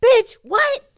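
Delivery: high, loud, disbelieving "what?"; incredulous what. Real, not acted. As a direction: shoot it up in disbelief. Incredulous outburst.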